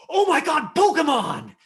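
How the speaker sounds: high, loud burst of excitement; excited squeal. Shown as a demonstration. Coach shows a kid pure delight, squealing. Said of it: "okay, Christian, say".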